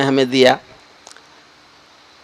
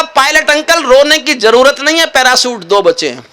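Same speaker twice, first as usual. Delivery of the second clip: a lightly voiced little boy, higher; child's voice; 8 semitones higher than usual. A boy cheerfully reassuring the pilot, lightly voiced kid. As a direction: play a small kid, pitched up a bit.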